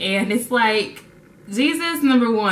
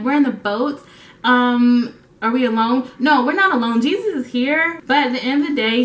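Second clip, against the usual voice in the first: frantic 911 caller; 3 semitones higher than usual. Retold or imitated. Disciple phoning emergency operator mid-storm, mock frantic. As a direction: talk fast to the operator, half panicked.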